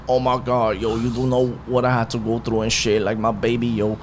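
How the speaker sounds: lightly mocking put-on plea; mock poor-me voice; sympathy seeker. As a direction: imitate someone playing for sympathy. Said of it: "coming to my family for fucking sympathy".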